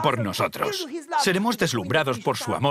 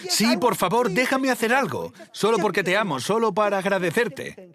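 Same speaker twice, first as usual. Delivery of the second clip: eager pleading; 6 semitones higher than usual. Retold or imitated. Grateful man begging his benefactor to let him serve, fervent plea. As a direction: plead earnestly to be allowed to help.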